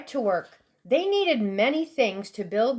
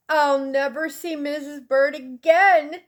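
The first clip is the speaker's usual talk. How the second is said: mild crying; 3 semitones higher than usual. Acted. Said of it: "he cried".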